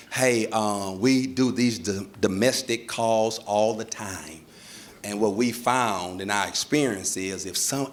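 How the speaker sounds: low, soft, slow official explanation; measured officer. Acted. Officer advising couple on domestic calls, measured official tone. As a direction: explain procedure with patient, careful pauses.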